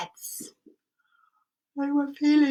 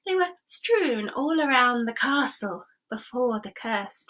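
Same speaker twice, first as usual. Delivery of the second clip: lightly voiced king; 3 semitones higher than usual. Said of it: "And the king said".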